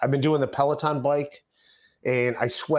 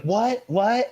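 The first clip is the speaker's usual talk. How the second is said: higher, louder mock baffled questions; baffled what; 8 semitones higher, 3 dB louder than usual. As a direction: act startled and puzzled, pitched up. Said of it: "And she's like".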